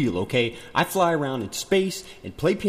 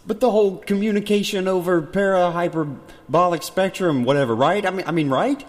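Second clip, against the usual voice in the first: inside metal tank; 6 semitones higher, 4 dB louder than usual. Real, not acted. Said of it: "I sound like I'm in a tin can here".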